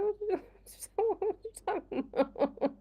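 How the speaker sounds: high-pitched, laughing disbelief; laughing retort. Retold or imitated. Teacher retelling a reply to a teenager's slang, laughing. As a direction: retell your baffled comeback through laughter.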